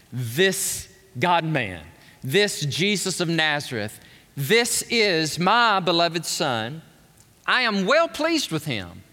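lightly voiced God the Father, solemn announcement. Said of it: "make sure you get this".

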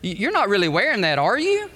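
quick mock question with a pointed rise; disapproving wife. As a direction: imitate a wife questioning her husband's outfit. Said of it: "some of you ladies would ask your husband".

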